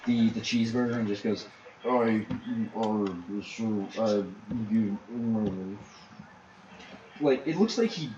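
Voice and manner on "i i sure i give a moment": talking through a bite of burger; mouth full. Acted. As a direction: mouth full of food, mumbling. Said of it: "you can finish eating".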